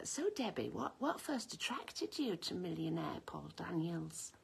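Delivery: lightly voiced sly chat show host, slow and hushed; a hint of the deadpan interviewer's barb; breathy innocent question with a sting; Mrs Merton. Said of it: "like Missus Merton".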